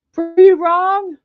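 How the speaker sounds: high, slow amused pretty wrong; laughing. Real, not acted. Laughing at dragon run joke.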